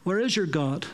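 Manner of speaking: rising taunts, quick and scornful; mocking. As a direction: tease them with growing scorn. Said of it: "he begins to mock them".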